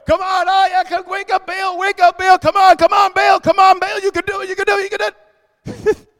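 high-pitched mocking cheer at Baal; mocking taunt. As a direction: taunt the false god like a sarcastic coach. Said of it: "He's gonna mock them. That's what I'm doing".

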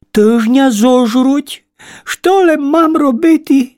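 a trapped bug at her wits' end; panicked ladybird. Acted. Ladybird worries to herself, high and scared.

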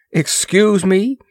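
high, drawn-out incredulous squawk. A narrator's reading. Moore startled by the princess's greeting, high squawk. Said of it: "squawked Moore".

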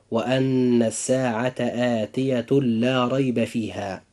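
آتية لا read with idgham, the tanween merged into the doubled lam, no nasal hum; slow Quranic recitation, آتية لا joined as one sound with a doubled l; correct tajweed reading. Shown as a demonstration. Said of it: "فهنا يكون قراءة هذه الآية هكذا". (قراءة صحيحة بإدغام آتية لا بغير غنة)

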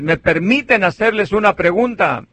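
retold repeat of the question, near his own voice; asking again. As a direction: ask the pews a second time, mildly. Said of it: "Luego otra vez".

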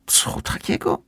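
breathless whispered question; whispered surprise. Acted. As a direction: gasp the question, barely voiced. (zdziwiony szept)

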